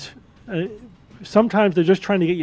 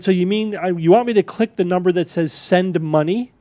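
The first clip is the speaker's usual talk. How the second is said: incredulous. Retold or imitated. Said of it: "so I said".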